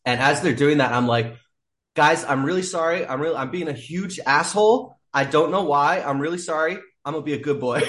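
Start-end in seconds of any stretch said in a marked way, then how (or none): 1.9-7.8 put-on lifted, pleading little-boy voice; higher-pitched sheepish plea; meek childlike apology. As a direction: beg forgiveness like a scolded kid. Apologizing to men dragging him.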